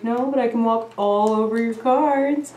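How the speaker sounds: lightly voiced cheeky cat; voicing the cat. A hint of the cat answering her. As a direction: speak for the cat, playfully. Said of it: "It's like".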